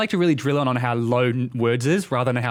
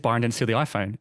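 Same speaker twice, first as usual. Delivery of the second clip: all monotone, no word stressed. Shown as a demonstration. Clarifying how texts lose tone, read in a monotone. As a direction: read it like an unstressed text message. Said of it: "It's all monotone".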